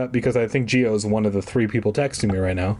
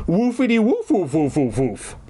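high start, tumbling woofs; dog barking words; 5 semitones higher than usual. A narrator's reading. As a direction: bark the words like an excitable dog. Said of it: "all that came out of my mouth".

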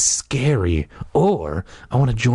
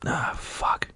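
whispered curse; 9 dB quieter than usual. Real, not acted. Muttered curse after misreading.

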